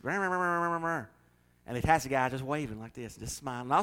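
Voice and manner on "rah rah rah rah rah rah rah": gibberish stand-in for angry cussing; mock ranting. Angry driver ranting at taxi driver, mock babble. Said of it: "and then he's just".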